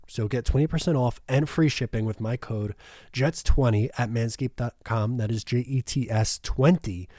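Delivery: upbeat sponsor read with the promo code; podcast host pitching a sponsor code. Acted. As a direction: sell the discount code to listeners.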